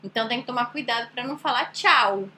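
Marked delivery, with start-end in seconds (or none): 1.7-2.3 "tchau" short, ending in "oo"; Portuguese final U. Shown as a demonstration. Teacher warning against the habit, "tchau" with a final U. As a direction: close "tchau" on a U sound. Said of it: "fala com som de U".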